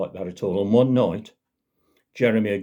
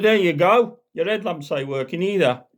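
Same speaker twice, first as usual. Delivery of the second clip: gloating constable; 7 semitones higher, 3 dB louder than usual. Acted. Constable smashes headlamps.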